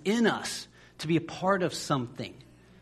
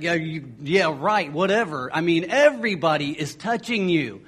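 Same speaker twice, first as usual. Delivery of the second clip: sarcastic disciples; 5 dB louder than usual. Retold or imitated. Disciples scoff at Jesus.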